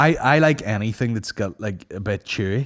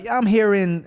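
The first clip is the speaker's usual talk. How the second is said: high, raised stage voice; mock stage comedian; 11 semitones higher, 4 dB louder than usual. Host mimicking Kevin Hart on stage, high mock announcing. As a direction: imitate a touring comic greeting the crowd, pitched up.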